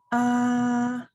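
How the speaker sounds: "Ah" held high and level, like singing; high first tone. Shown as a demonstration. Teacher demonstrates the first tone, high level "Ah". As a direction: sustain "Ah" on one high, even pitch. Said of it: "this is how it sounds".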